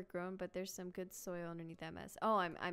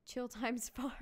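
reading a silly name through a laugh; amused, breaking into laughter; 3 semitones higher, slower than usual. Real, not acted. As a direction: crack up mid-name. Laughs at own farm name.

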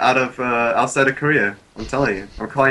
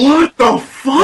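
higher, louder and slow; drawn-out disbelief; 12 semitones higher, 5 dB louder, much slower than usual. Real, not acted. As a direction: stretch it out in stunned disbelief. Stretched shocked repeat.

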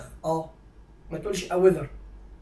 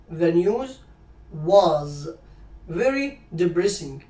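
slow dictation; 3 semitones lower, much slower than usual. Shown as a demonstration. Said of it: "slow model sentence".

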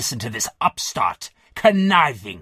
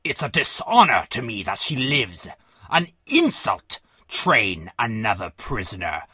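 very low, seething general; choked with emotion; 10 semitones lower, 3 dB quieter than usual. A narrator's reading. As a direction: hold back rage in a deep, choked voice. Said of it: "Emotion choked off Brazel's voice".

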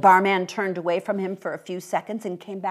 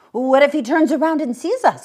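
put-on nervous child; 9 semitones higher, 11 dB louder than usual. Child worried while chasing.

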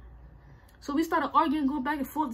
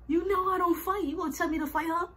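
higher-pitched mock disbelief; incredulous retort; 6 semitones higher than usual. Retelling to viewers how sister pushed a fight, incredulous. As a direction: toss it back as an incredulous question. Indignant reply to being told to fight.

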